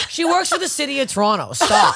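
laughing protest. Retold or imitated. Protesting to friends about her sister's luck, laughing. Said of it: "I'm like".

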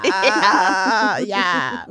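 exaggerated Minnesota "Ah, yeah"; hammy Upper Midwest drawl; Minnesotan accent. Joking about their accents.

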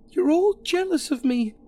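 wild screech waving a knife. Acted. Alison screeching at guests while waving a knife, high screech. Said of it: "she screeched".

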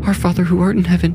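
high, fast frightened prayer. Acted. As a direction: rush the prayer in panic. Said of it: "then prayed faster".

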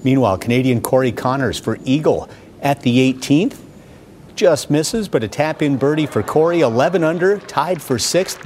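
lively highlight narration, calling each shot; golf commentator. Acted. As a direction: call the golf highlights like a broadcaster. Narrates golf highlights over footage.

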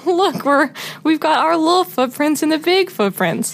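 lightly voiced gleeful kid; a hint of an amazed little child; excited child voice. Little children following parents' footsteps.

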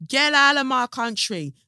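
mocking those who shout at immigrants; mock hostile bigot. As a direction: imitate a hostile racist telling people to leave. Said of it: "when people are like".

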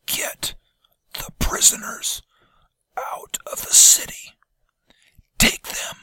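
hoarse, pained whisper. A narrator's reading. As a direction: force out a raw, painful whisper. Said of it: "But he whispered".

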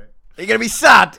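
put-on high, loud little-boy voice; mock toddler voice; imitating a little boy. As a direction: pipe up like an innocent nursery boy. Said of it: "exactly how he said it".

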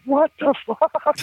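high, slow, drawn-out disbelief; stunned disbelief. Retold or imitated. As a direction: gape at the sight, stretching it out. Shocked at Derek's hair.

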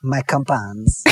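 simple French farmer, slow and earnest; badly faked French accent, words drawn out; mock French accent. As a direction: play a humble farmer with a hazy French accent. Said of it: "things with a French accent".

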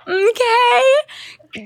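high, drawn-out okay; her own okay. Retold or imitated. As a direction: say okay the way you always do. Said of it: "the amount of times I go".

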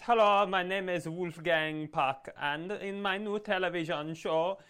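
exaggerated Austrian-accented chef greeting; Wolfgang Puck. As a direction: put on a high, singsong Austrian TV-chef voice. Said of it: "Have you ever heard the man talk?".

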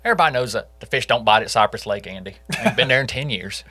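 lightly voiced folksy suspect; mock suspect voice. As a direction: play the denying suspect, offhand. Voicing Stockelman's alibi claim.

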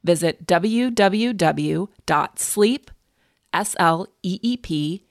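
upbeat sponsor read, steady and clear. Acted. Host reading a sleep sponsor ad, bright ad-read delivery. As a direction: sell the mattress pad to listeners.

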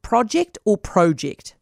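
"project" said first as PROH-ject, then as PROJ-ect with a short o; "project" said slowly twice, first with a long o, then with a short o; two pronunciations. Shown as a demonstration. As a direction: contrast the two ways of saying "project" slowly. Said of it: "How would you pronounce the word project".

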